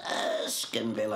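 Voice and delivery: sniffy "Erskineville" with the pitch lifting upward; voice goes up, nasal. Retold or imitated. Snobbish new girl sniffing at her suburb, "Erskineville" rising nasally. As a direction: lift "Erskineville" up through the nose in disdain. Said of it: "her voice went up with a nose".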